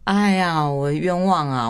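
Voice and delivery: mock protest. Playful protest of innocence.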